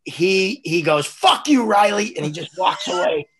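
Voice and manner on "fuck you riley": retold angry yell, high and loud; angry outburst. Humiliated coach cursing out the ref, angry yell. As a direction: yell it like a fed-up coach storming off.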